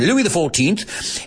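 drawn-out mock British accent. Shown as a demonstration. Comic announcing a French king, in a British accent. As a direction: put on a slow British accent. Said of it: "Let's say it with a British accent".

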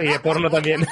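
laughing. Real, not acted. Joking admission.

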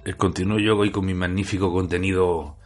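hoarse, raspy smoker's voice; rough, gravelly from a rough night. Real, not acted. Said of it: "con voz cazallera".

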